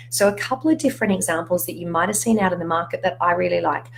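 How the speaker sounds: hoarse, fading voice; losing voice. Real, not acted. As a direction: voice giving out, raspy. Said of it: "I'm losing my voice".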